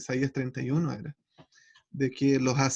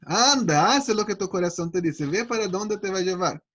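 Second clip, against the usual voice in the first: sarcastic dare; 2 semitones higher, 4 dB louder than usual. Acted.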